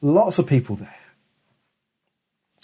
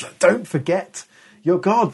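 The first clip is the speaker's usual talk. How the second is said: rebuke; 5 semitones higher than usual. Retold or imitated. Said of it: "more of an angry rebuke".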